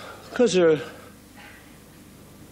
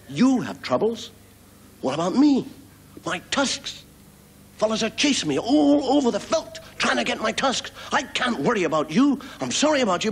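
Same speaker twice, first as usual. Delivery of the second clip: high whiny voice, full of self-pity; complaining elephant; 11 semitones higher than usual. Acted. Elephant brushing off the frog with his own complaints. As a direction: moan about your own troubles.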